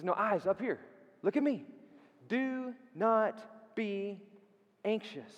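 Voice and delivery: "Do not be anxious." slowed right down and set apart. Acted. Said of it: "He says".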